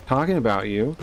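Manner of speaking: mock innocent questions; lightly mocked fake cluelessness; playing dumb. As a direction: imitate someone feigning ignorance. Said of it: "he tries to play, like, dumb".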